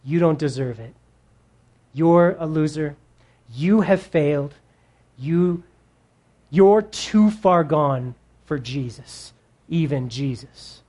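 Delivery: lightly voiced accuser, slowing down toward the end; accusing inner voice. Preacher voices the enemy telling a believer they're unworthy, lightly accusing. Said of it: "another voice that says".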